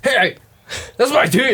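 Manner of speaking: loud proud fan yell; hammed-up fan shouting; mock fan shout. Mocking Bronco fans.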